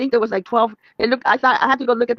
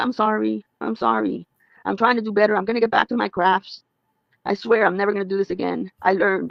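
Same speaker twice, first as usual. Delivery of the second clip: mock glum, long-faced, sorry-sounding tone. Imitating someone apologizing on her live stream: imitating a glum apology. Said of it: "with a long face on".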